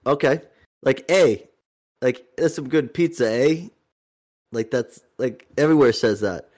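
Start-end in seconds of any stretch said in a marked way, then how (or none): 2.4-3.7 slightly raised pitch, "eh?" tacked on as a question; casual remark ending in a questioning "eh?"; tag question. Shown as a demonstration. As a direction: turn the statement into a question on "eh?". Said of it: "turns a, into a question".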